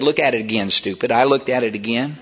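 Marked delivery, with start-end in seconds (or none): 0.0-1.1 the Lord's voice. Retold or imitated. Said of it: "he said".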